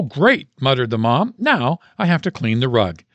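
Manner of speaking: lively storytelling read of a Christmas poem. Acted. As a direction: read it like a fun holiday poem. Reads Christmas poem aloud.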